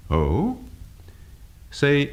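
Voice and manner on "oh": "Oh" gliding steeply up from low; interested surprise. Shown as a demonstration. Teacher demonstrating rising inflection, surprised "Oh". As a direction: lift "Oh" into a surprised question. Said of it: "to register interest or surprise, the voice will rise up".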